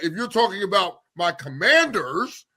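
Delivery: slow, weighty "Commanders"; stress on Commanders. Real, not acted. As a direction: lean hard on "Commanders", drawing it out. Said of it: "put some emphasis on that".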